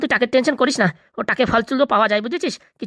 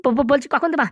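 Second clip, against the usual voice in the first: eager stammer. Acted. Hungry captive asks when food comes, eager stammer. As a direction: stutter into the question.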